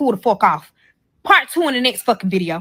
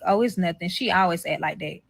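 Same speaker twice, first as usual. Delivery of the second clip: lower, softer brush-off; dismissive; 4 semitones lower, 7 dB quieter than usual. Retold or imitated. Child's father brushing off her worry, dismissive. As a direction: imitate a partner waving the worry away, low and quiet.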